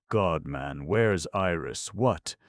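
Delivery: loud, urgent panicked calling; frightened shout from the water; alarmed shout. Acted. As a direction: demand it in alarm. Panicked shouting after capsize.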